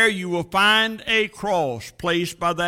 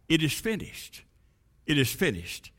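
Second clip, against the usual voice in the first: very soft, lowered voice; hushed whispering; 6 semitones lower, 10 dB quieter than usual. Acted. Grass tells the herbs, hushed and whispering. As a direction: pass it on in a hush. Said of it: "The grass whispered to the herbs".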